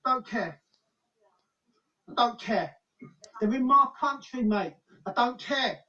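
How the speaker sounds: defiant shouting. Real, not acted. Angry confrontation with official.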